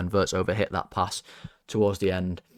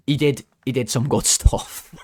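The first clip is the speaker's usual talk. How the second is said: laughing; 4 semitones higher, 5 dB louder, slower than usual. Real, not acted. Laughing at own tangent.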